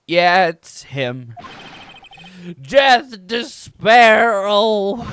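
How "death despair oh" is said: hammed-up doomed wailing; client screaming. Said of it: "Is that your client screaming over there?".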